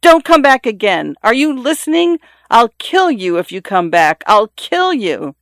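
high-pitched narrated yelling; screamed threat. A narrator's reading. Woman warning a fleeing stranger off, screamed. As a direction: cry it out high, stretching the final threat. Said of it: "she screamed".

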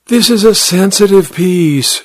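put-on high, precise Austrian-accented voice; Missus Fuchs, Austrian accent. A narrator's reading. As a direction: instruct a pupil in an Austrian accent. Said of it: "her accent Austrian".

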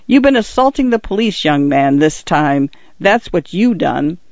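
put-on policeman accusing the young man; stern constable. Constable Winch's voice.

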